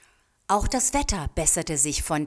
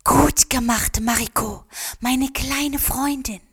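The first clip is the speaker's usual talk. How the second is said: spring wind; 8 semitones higher, 6 dB louder than usual. A narrator's reading. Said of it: "den Frühlingswind wispern".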